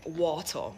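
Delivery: "water" said the patois way; Jamaican pronunciation. Shown as a demonstration. Recalling the stumbling-block word, Jamaican pronunciation. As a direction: say "water" with a Jamaican open ending, no r. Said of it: "in Jamaica it's water".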